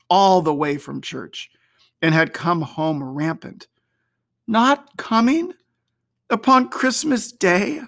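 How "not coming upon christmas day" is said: higher, slowed, crestfallen father; dismayed. A narrator's reading. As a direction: let his spirits drop. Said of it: "sudden declension in his high spirits".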